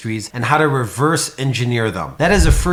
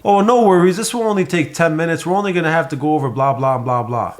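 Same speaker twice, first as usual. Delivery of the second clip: bad salesy pitch. Shown as a demonstration. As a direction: play the rep who rushes straight to a rebuttal. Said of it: "think about the opposite of this".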